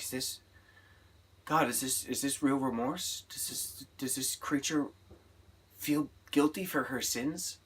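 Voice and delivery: hushed, half-whispered wonder; nun wondering aloud. Retold or imitated. Nun holding Pepper, whispering in awe. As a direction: breathe the question like a prayer. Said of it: "she's like".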